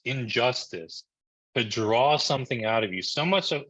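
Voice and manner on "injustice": injustice drawn out slowly, each syllable weighed; slow stress on injustice. Shown as a demonstration. Coach to webinar audience, slow deliberate injustice. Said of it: "I'm using that word on purpose".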